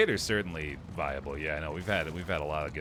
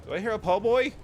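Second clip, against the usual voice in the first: cooing to a dog; 8 dB louder than usual. Real, not acted. Streamer greets her dog.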